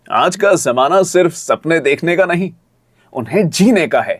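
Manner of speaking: ad read leaning into "जीने"; expressive demo read. Shown as a demonstration. Coach showing how the script can be done, expressive. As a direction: make the contrast between dreaming and living clear. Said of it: "इस तरह से आप उसको कर सकते हैं".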